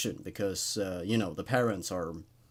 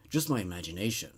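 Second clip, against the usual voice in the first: softer, lower, self-soothing murmur; hushed repeat; 7 semitones lower, 6 dB quieter, faster than usual. A narrator's reading. Character calming herself in the dark, softer and lower. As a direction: repeat it to yourself, almost under breath. Narrator reassuring herself in story.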